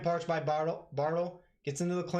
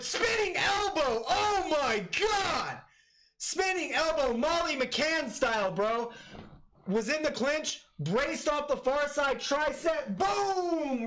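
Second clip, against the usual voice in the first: excited shouting; 11 semitones higher, slower than usual. Real, not acted. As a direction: scream the knockout call way up high. Live reaction to replay.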